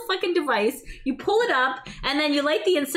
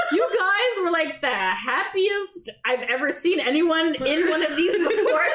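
laughing quote; slower than usual. Retold or imitated. Quoting the priest, laughing.

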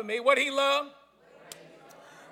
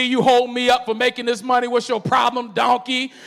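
angry Balaam; 6 dB louder than usual. Retold or imitated. Angry Balaam scolds donkey.

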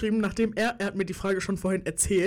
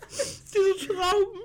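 high squealing laugh-cry; 10 semitones higher, much slower than usual. Real, not acted. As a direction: laugh and whine at once. Reacting to the grapes.

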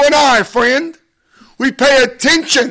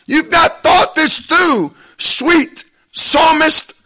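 higher-pitched, pleading warning to David; urgent warning voice; 4 semitones higher than usual. Acted. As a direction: warn him before he makes the mistake. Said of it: "the one says unto us".

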